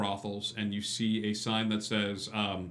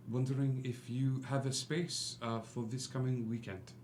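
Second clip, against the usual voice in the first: lightly voiced soft-spoken Frenchman; a hint of a polite French gentleman, kept soft; gentle courteous stranger asking about a vacancy; suave stranger; 5 dB quieter than usual. GM voices Lestrange.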